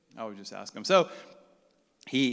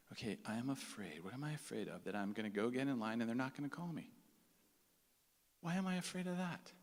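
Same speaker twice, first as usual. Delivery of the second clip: hushed inner thought; 2 semitones lower, 10 dB quieter than usual. Retold or imitated.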